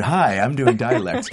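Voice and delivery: self-mocking show-off actor, drawn out slowly; mock annoying actor. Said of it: "such an annoying actor thing".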